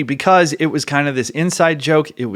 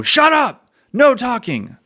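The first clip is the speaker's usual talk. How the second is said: barked order; 12 semitones higher, slower than usual. Retold or imitated. Ceremony leader yelling at whispering scouts to shut up. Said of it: "the leader will go".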